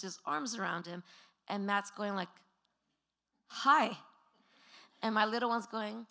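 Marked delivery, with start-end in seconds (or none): 3.5-4.0 loud, higher-pitched awkward "hi"; retold uneasy hello; awkward greeting. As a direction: imitate a man unsure with a kid. Startled man greeting affectionate child.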